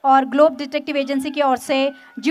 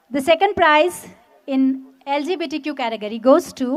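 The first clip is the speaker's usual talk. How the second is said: booming prize announcer; much slower than usual. Real, not acted. Prize announcement at a garba event.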